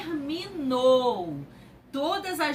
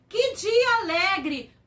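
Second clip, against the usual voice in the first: a touch louder, slow, happy exclamation; joyful exclamation; 6 semitones higher, 6 dB louder than usual. Shown as a demonstration. Teacher demonstrating joy to the class, slow and a touch louder. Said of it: "Vamos lá".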